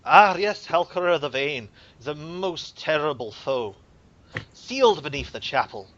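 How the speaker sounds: put-on grave old cleric intoning; templar priest voice. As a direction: speak as a solemn templar.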